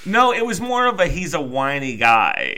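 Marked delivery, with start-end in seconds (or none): 1.1-2.6 a slow, lightly whiny guy. Shown as a demonstration. Host demos his only whiny voice to his co-host, a mild whine. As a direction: drag it out a touch whiny, half-hearted. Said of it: "that's my only whiny voice".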